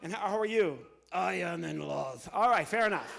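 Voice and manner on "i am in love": slow lovestruck puppet drawl. Acted. Puppet declares love to the audience, slow. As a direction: sigh it out like a smitten puppet.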